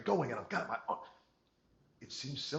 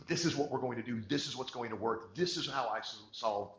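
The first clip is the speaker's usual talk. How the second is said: louder, confident rally speech; certain, motivating; 2 semitones higher, 5 dB louder than usual. Shown as a demonstration. Salesperson rallying a client with loud confident certainty. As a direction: pump the room up with certainty. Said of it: "You tell them with certainty".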